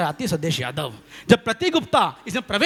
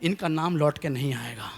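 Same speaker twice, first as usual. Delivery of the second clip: water god; 5 semitones lower than usual. Retold or imitated. River god hushing the poet, lightly voiced. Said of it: "जल देवता आए".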